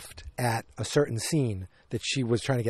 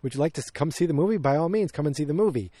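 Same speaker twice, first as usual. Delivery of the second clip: lightly voiced usher, higher pitched; accommodating, higher-pitched welcome, lightly imitated; obliging usher; 3 semitones higher than usual. Theater usher welcomes the actress into the movie, lightly imitated obliging manner. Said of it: "either the manager or the usher".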